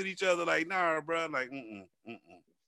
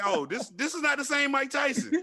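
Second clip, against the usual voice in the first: mock shout; 7 semitones higher than usual. Retelling reaction to crying Tyson, mock shout. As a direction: belt it out like a stunned fan. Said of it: "And I said".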